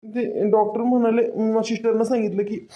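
mildly tearful, halting report. Acted. Husband telling Sakubai the doctor's diagnosis, mildly tearful. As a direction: falter as if holding back tears. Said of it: "रडू नको तू".

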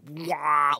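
mock blare of intrusive music; a quick "wah" mimicking overbearing soundtrack; imitating blaring music. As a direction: blurt it like music barging in. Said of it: "where the music's just".

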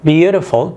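slow clear model word; Beautiful said slowly as a model. Shown as a demonstration. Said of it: "مقطع واحد".

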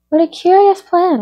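high-pitched, intrigued exclamation; surprised exclamation. A narrator's reading. Alice reacts to the lesson schedule, exclaiming. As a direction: exclaim with curiosity, pitch well up. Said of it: "exclaimed Alice".

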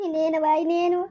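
a helpless question through sobs; tearful despair. Acted. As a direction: cry it out, hopeless. Mother despairs over daughter.

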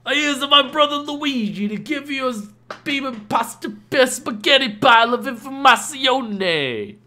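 very high, loud cartoon Italian voice; Hello Mario voice. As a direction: squeal it like a Mario parody, stretching the ending. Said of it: "sounds like the Hello Mario voice".

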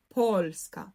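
польська with the stress on поль, falling after it; наголос на перший склад. Shown as a demonstration. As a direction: lean on поль, let ська drop. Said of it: "наголос на по". (польська з наголосом на поль)

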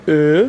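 ا as a loud, held German ö; rounded o-umlaut. Shown as a demonstration. Teacher demonstrates o-umlaut alone, ا as loud rounded ö. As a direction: say ا through rounded lips, loud and drawn out.

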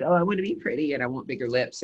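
a hint of a vain beauty client, mimicked; mock-eager, lifted pitch on the opening. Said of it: "aesthetics industry is very vain".

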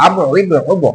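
আব, ইবে, ওব each ending in a bounced b; echoing release on every final b; qalqalah bounce. Shown as a demonstration. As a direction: kick the b out on আব, ইবে, ওব. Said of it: "ঠিক এরকম".

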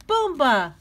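high, loud game cry alone; lonely shout. Acted. Flop playing alone, shouting his game word. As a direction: yell it then tumble. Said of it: "shouted Flop".

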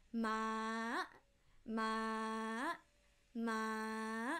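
"Ma" level from mid, shooting up at the end; high tone. Shown as a demonstration. Teacher demonstrating fourth tone, "Ma" ending sharply high. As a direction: hold "Ma" then jump high. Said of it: "get high very, very dramatically".

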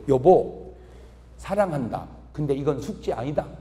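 mean it this time, quietly; tender confession. Retold or imitated. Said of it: "또 얘기한 거예요". (숙제가 아니라며 진심으로 부드럽게)

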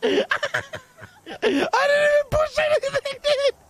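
put-on high, laughing drunken whine; fake drunk voice. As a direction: slur it out while cracking up. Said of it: "You sound fucking drunk, dude".

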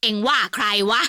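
a growled challenge, eyes bulging; angry old man. A narrator's reading. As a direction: snap back at the son-in-law. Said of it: "ทำปากแบะในตาถลน". (ตวาดถามอย่างโกรธ)

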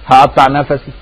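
هقطع نفسي with the ف in نفسي bounced; bouncing qalqala on the f. Shown as a demonstration. Preacher imitating the smug Fatouta's bounced ف. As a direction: let the ف in نفسي echo with a tiny vowel. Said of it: "حتى هو بيقلقل الفاء".

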